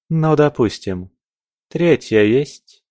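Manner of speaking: высокий, напряжённый скептический вопрос; допусти нехотя и спроси с нажимом; нервная усмешка. A narrator's reading. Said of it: "нервно хмыкнула Алина". (нервно, повышенным тоном)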